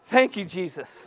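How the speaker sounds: "Thank you, Jesus" said through a laugh; laughing praise. Retold or imitated. Preacher retells laughing at the irony, laughing thanks. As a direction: laugh it out with relief. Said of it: "when I laughed".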